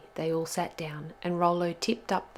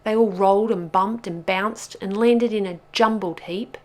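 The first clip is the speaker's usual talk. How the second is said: louder, higher, breathless-chase storytelling; urgent narration; 4 semitones higher, 10 dB louder than usual. A narrator's reading. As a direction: drive the chase along excitedly.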